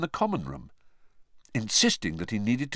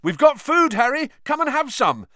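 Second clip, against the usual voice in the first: loud, high party invitation; excited shout, pitched way up; calling out; 7 dB louder than usual. Acted. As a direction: call over a noisy crowd. Calling to Harry over noisy party.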